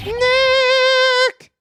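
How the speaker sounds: high call of the name. Shown as a demonstration. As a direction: call it out to the mic. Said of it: "Maybe I'm not saying it loud enough".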